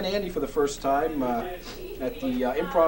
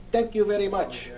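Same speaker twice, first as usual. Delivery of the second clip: put-on Andy's foreign accent; 4 semitones higher than usual. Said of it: "in that accent of his".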